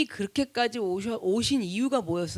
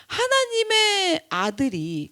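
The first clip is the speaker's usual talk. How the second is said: slow anguished cry; 6 semitones higher, much slower than usual. Real, not acted. Preacher crying out over God's Son, slow anguished. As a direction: stretch it out in a pained cry.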